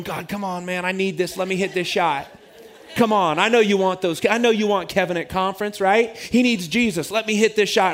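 rising, pleading prayer before the shot; eager bargaining plea; pleading with God. Retold or imitated. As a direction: beg God half-joking, building up.

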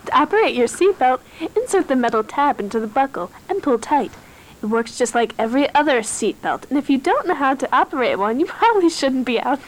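flight attendant. Pretend. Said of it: "stewardess voice".

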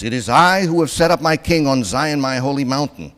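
God's decree thundered out; booming God. Retold or imitated. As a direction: proclaim like God himself. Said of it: "God says".

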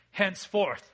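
loud, mock English accent. Preacher reading the verse to the congregation, mock English accent. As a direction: declaim it like a bad English impression. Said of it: "that sounds very English".

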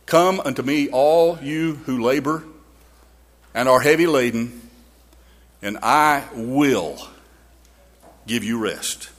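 unhurried tender invitation; tender scripture quote. Acted.

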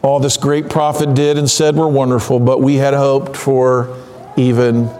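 low, slowing, with pauses before the final words; Cleopas, disappointed. Acted. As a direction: voice a let-down follower, sinking word by word. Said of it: "Can you hear the disappointment in his voice?".

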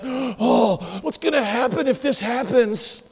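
mildly hammed-up worry after a gasp; fretting. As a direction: fret aloud over what might come. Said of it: "We fret over them".

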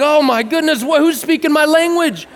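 high-pitched acted astonishment; amazed listener. Street listener overhearing their own language, astonished. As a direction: exclaim it high, as if you can't believe your ears.

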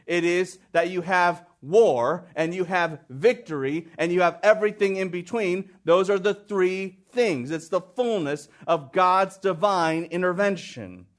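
ordinary talk

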